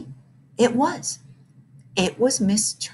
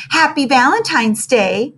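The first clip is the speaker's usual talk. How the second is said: gasping; 5 semitones higher, 5 dB louder than usual. Acted. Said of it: "between gasps for breath".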